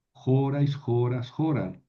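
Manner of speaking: jorais, joras, joral each stressed on the first syllable JO; fixed accent. Shown as a demonstration. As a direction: recite jorais, joras, joral, leaning on JO every time. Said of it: "el acento no se mueve".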